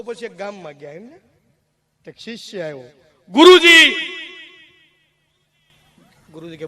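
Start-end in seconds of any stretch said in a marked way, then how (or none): 3.3-3.9 calling out. Acted. Disciple calls out to guru.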